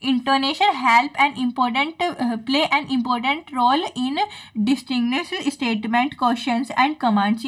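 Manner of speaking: slow, careful reading aloud of a textbook line; slow dictation reading. Acted. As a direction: dictate it slowly, word by word, for notes. Reads English definition to class. (धीमे-धीमे notes लिखवाने वाली आवाज़)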